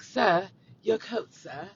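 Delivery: slow, formal butler voice; mock butler. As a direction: play the polite butler, drawn out. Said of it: "I talk like I'm a butler".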